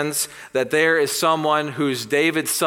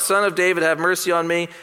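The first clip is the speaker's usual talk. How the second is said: louder, higher desperate plea; a blind beggar's loud cry to passing Jesus; crying out for mercy; 6 semitones higher, 4 dB louder, faster than usual. Retold or imitated. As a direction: call out for mercy with all he has. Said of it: "And he cries out".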